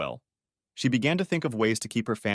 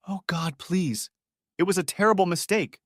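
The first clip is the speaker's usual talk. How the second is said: higher, mild acted scream; 8 semitones higher than usual. Wife crying out her mistake to Dave, mild scream. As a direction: push the plea up into a cry. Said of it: "she screamed".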